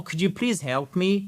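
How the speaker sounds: calm, clear, polite Could you please help me; calm polite request. Shown as a demonstration. Teacher showing the right polite request. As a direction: ask nicely and clearly. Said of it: "Calme, clair, poli".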